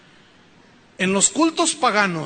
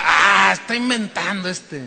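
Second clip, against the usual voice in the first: mocking objector. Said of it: "esto usted dirá".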